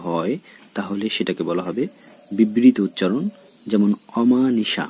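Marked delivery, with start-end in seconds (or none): 4.2-4.9 অমানিশা slowly, with an open "aw"; open initial o. Shown as a demonstration. Teacher gives an example, অমানিশা with open aw. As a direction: start অমানিশা on a wide "aw". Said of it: "অ এর উচ্চারণ কিন্তু ঠিকঠাকভাবেই হচ্ছে".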